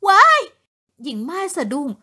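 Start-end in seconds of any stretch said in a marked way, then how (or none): 0.1-0.4 sudden fearful cry, louder at the end; a frightened woman squeals in the night; startled shriek. A narrator's reading. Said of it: "ร้องเสียงหลงด้วยความตกใจ".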